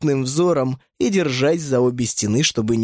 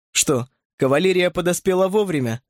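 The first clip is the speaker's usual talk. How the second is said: sarcastic; 5 semitones higher than usual. Acted. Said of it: "съязвил я".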